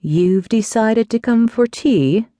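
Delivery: mock her for turning up; aunt sniffing at her niece's visit, slowly; disdainful. A narrator's reading. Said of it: "with a sniff of disdain".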